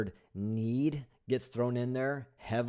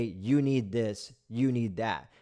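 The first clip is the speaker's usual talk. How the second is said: pushy salesman; slower than usual. Retold or imitated. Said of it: "Who is anybody to say".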